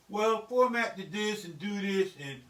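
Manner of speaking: slow, measured polite phrasing; mockingly proper and unhurried; mock-polite proper talk. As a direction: put on careful, courteous instructions. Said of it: "I talk the way I talk".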